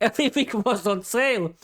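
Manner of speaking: laughing. Acted. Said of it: "Adena laughed".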